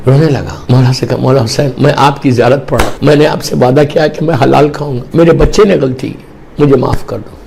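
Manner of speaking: low, hushed plea for rescue; mild desperate prayer; pleading prayer. Retold or imitated. Man prays for rescue.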